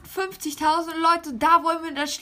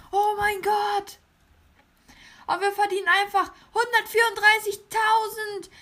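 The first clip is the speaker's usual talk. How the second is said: raised, excited hype voice; over-the-top YouTuber amazement; higher-pitched voice. Acted. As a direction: keep it up high and amazed. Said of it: "mit einer höheren Stimme geredet".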